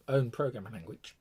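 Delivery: talking through hiccups; words broken by a hiccup. Real, not acted. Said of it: "Always get the hiccups".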